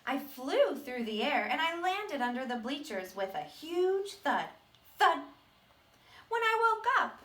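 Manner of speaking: a hint of the seed retelling his past; lightly voiced seed. Teacher reading the seed's sad past to the class. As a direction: tell it as the seed, half remembering.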